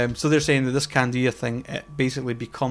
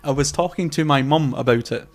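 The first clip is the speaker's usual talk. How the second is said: measured, word-by-word delivery; slow it down and space out each word; deliberately slower; 4 dB louder than usual. Shown as a demonstration. Podcaster repeating for viewers after talking too fast, deliberately slower. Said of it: "say that again a bit slower".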